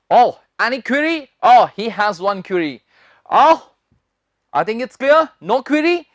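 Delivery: drawn-out acted example; slow example lines. Shown as a demonstration. Teacher slowly modelling example sentences. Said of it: "example sentences".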